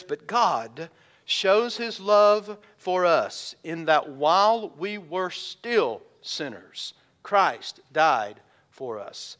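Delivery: solemn reverent close; tender slow reading. Real, not acted. Closing verse, slowed.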